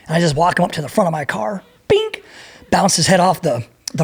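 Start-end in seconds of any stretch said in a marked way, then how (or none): 1.9-2.2 high squeaky bink; impact sound. Retold or imitated. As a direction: pop out a sharp bink.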